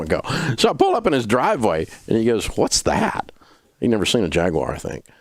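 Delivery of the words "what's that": high-pitched puzzled question; retold incredulous question; baffled grandpa.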